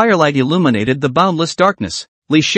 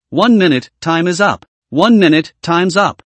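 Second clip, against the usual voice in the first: slightly raised system announcement; mechanical voice; 2 semitones higher than usual. Acted. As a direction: announce it like a machine. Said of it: "a mechanical voice like heavenly music sounded".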